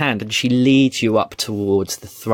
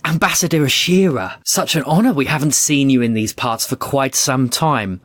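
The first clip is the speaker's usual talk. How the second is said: delighted queen; 3 semitones higher than usual. Acted. Queen rushing down from her throne to the ambassador, delighted. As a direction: greet an honoured guest with open delight. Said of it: "Ingumba leaps up and hurries down".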